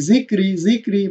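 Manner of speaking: light r in জিক রি; thin R. Shown as a demonstration. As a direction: recite জিক রি with a thin r before the long i. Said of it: "পাতলা করে পড়তে হবে". (জিক রি-র র পাতলা করে)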